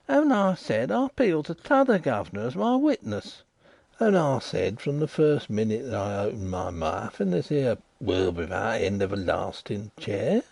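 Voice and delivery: lightly voiced waterside informer, insistent; a rough riverside man pressing his point; Riderhood. Riderhood protests to the lawyer.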